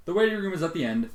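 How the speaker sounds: a receptionist's sharp brush-off. A narrator's reading. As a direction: snap out the directions. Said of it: "the receptionist explained sharply".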